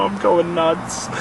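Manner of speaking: slow, drawn-out admission of losing it; stretched-out, weary confession; worn-out muttering. Real, not acted. Says he is losing it.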